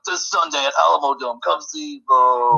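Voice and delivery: slow hyped announcer voice; monster truck ad. Retold or imitated. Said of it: "Monster Truck, uh, commercials".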